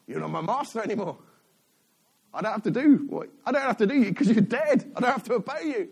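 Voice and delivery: defiant freed slave. Acted. Freed Israelites to their dead Egyptian masters, defiant. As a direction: throw it in a dead master's face. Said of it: "and they went".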